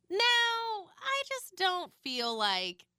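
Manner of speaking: high, long-held wail of protest; drawn-out dismay. Real, not acted. Host reacting to the therapy transcript, drawn-out dismay. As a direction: stretch it out high in disbelief. Exasperated objection to what was read.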